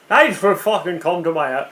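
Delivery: mock Irish accent, lightly done; a bad Irish accent. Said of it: "No, that's Irish".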